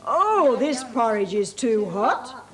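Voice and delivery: big, slow Father Bear voice, loud. Acted. Teacher reading to child as Father Bear, slow and loud. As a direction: boom it out like a great big bear.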